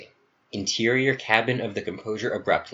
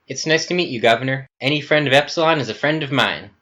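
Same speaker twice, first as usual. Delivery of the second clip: much higher, eager to please; nervously polite to a scary governor; nervous politeness; 5 semitones higher, 5 dB louder, faster than usual. Acted. Kenneth greeting the governor, higher and nervously polite.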